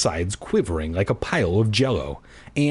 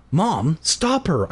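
pleading; 5 semitones higher, slower than usual. Acted. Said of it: "I pleaded".

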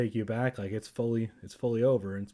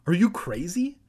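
higher, louder acted outcry; crying out; 6 semitones higher, 5 dB louder than usual. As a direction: cry out in mild alarm. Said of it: "Evan cried".

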